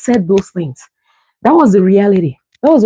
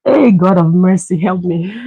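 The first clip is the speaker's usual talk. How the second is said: laughing plea. Real, not acted. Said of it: "laughing plea to God".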